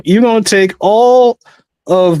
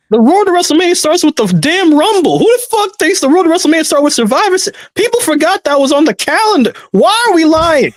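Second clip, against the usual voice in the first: higher-pitched, indignant correction; exasperated disbelief; 4 semitones higher than usual. Real, not acted. Co-host disputing when WrestleMania season starts, exasperated. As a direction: argue it like an outraged fan.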